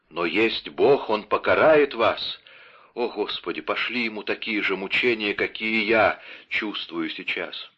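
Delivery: медленно, торжественно проклиная; призови Божью кару, медленно; проклятие умирающего. Acted. (медленное проклятие умирающего)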